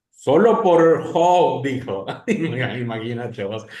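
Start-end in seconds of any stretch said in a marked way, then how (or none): 0.1-1.6 lenta y fuerte voz divina; voz de Dios. Acted. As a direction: pronuncia el veredicto, lento y enfático. Imita a Dios respondiendo. (voz de Dios, lenta y potente)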